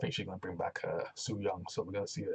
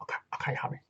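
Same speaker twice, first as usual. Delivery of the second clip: mumbled okay; faster than usual. Retold or imitated. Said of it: "Rich Swann's kinda like".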